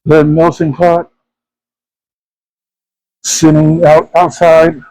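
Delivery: talking through a face mask; muffled behind a mask. Real, not acted. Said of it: "if I sound a little bit muffled, it's because I have my mask on".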